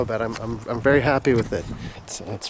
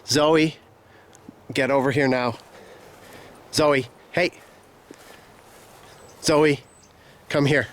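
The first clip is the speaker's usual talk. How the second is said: calling from far away. Real, not acted. Calling dog from afar.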